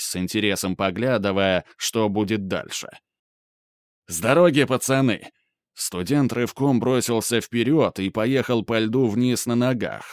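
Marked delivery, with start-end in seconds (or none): 4.1-5.3 loud yell to clear way; shout. Acted. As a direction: shout them out of the way. Студент кричит детям на бегу. (крик на бегу)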